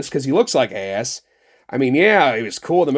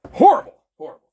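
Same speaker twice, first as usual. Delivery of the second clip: high, loud mock shock; mock horror; 12 semitones higher, 7 dB louder, faster than usual. Toy reviewer mocking gun panic with hammed-up horror. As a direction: gasp it out like a scandalised prude. Mock outrage over guns.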